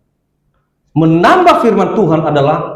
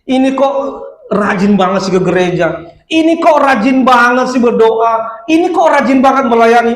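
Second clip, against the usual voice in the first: mock crying devil; 6 semitones higher than usual. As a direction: play a devil whimpering in the corner. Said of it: "iblis tuh nangis tuh di pojok sono". (iblis merengek pura-pura menangis)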